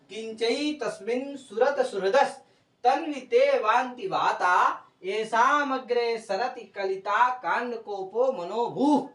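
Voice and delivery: slow, measured Sanskrit recitation; verse recitation. Real, not acted. Teacher reciting the example verse on Narmada's bank, slow recitation. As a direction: draw out each long syllable of the verse.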